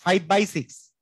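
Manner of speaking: "five by six" with weight on "by"; demonstrated English reading. Shown as a demonstration. Teacher shows how to read the fraction in English, stressing "by" in "five by six". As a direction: model "five by six" clearly, leaning on "by". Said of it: "by বলতে হবে এইভাবে করে".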